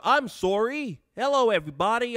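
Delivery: high, mock-Canadian accent; fake Canadian accent. Streamer imitating what Canadians say, mock Canadian accent. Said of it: "what's that thing they are?".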